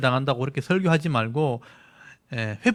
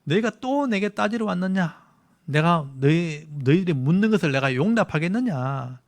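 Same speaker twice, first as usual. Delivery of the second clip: angry reading; 2 semitones higher than usual. Acted. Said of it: "조금 화가 난 말투로 읽어야".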